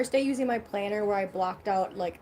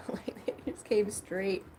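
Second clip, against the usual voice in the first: hushed whisper, slower; slower than usual. Real, not acted. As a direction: whisper it, half laughing. Gross dog story, whispered.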